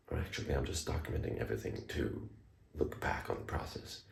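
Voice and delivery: hushed whisper so the wife sleeps. Real, not acted. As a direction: whisper softly, someone's asleep. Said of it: "I'm whispering because my wife is asleep".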